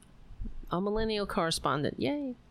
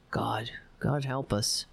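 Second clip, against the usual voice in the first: a breathy whispered prayer, almost to herself; hushed plea; 8 semitones lower than usual. Real, not acted. Host muttering to her chat about the president, whispered. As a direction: drop to a whisper as if praying for rescue. Despairing aside to viewers.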